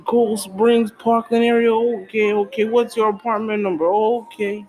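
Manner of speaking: hammed-up nosy admirer, lightly voiced; creepy suitor.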